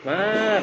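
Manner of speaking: Mar with the U dropped, lifted; just call out Mar with the pitch going up; clipped name. Shown as a demonstration. Teacher imitating Indonesians shortening the name to Mar. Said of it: "bahkan nggak ada U-nya kan".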